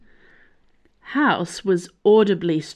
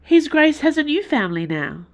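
much higher, louder, rushed out; blurted out; 10 semitones higher, 5 dB louder than usual. A narrator's reading. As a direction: blurt it out nervously. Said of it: "she blurted out".

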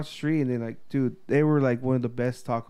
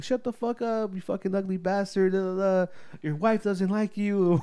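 higher-pitched mock insults; retold heckling; 4 semitones higher than usual. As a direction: toss taunts back, high and teasing. Retold taco workers insulting regular back.

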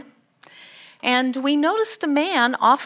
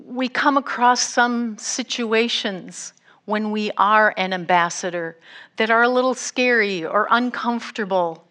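normal talking voice

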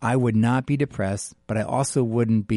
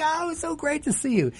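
fake enthusiasm; 3 dB quieter than usual. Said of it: "I'm like".

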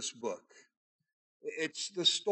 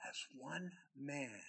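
much softer, slow, nearly breathed ending; hushed; 15 dB quieter, slower than usual. Acted. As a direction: let the words sink in a hush. Drops to a hush.

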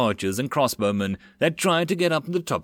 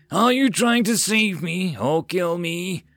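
slow, higher, hissing dragon complaint; unhappy hiss; 7 semitones higher, 3 dB louder, slower than usual. Acted. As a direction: hiss it at the soldier in annoyance. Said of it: "She hissed unhappily".

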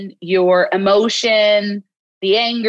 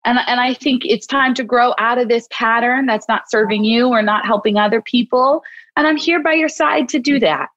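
encouraging self-talk; 3 semitones higher than usual. Shown as a demonstration. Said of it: "I'm saying".

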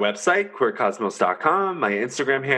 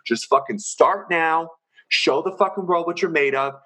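higher, fired-up coach rant; pep-talk rant; 4 semitones higher than usual. Real, not acted. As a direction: yell encouragement at them. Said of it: "I didn't mean to yell at you".

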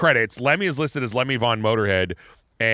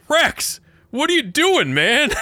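squeaky high shout; high-pitched yell; 13 semitones higher, slower than usual. Retold or imitated. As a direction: yelp it in a high voice. Retold drummer quote again.

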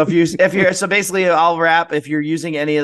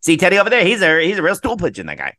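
1920s gangster talk; faster than usual. Retold or imitated. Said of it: "when they used to talk real quick".

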